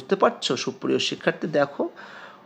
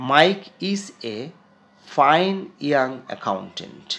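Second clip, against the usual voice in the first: very slow dictation-style reading; slow classroom read; reading aloud slowly; much slower than usual. Shown as a demonstration. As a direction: read each word out for the class. Reads text slowly.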